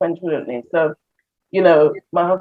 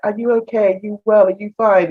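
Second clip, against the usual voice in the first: counselor voice; 3 semitones higher than usual. Retold or imitated. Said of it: "we have a counselor speak like".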